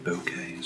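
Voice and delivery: bokeh as BOH-kay; bokeh pronunciation variant. Shown as a demonstration. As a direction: say bokeh with long O, ending in "kay". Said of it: "how it's actually pronounced".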